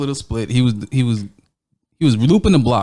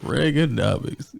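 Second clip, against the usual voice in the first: softer, slow "Reaganomics" with a falling end; quiet deadpan; 4 semitones lower, 7 dB quieter, slower than usual. Pretend. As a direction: let "Reaganomics" drop away slowly and softly. Third repeat, dropped down.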